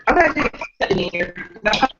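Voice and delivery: choppy call audio breaking up; broken up by a bad connection. Real, not acted. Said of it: "It sounds like we're breaking up".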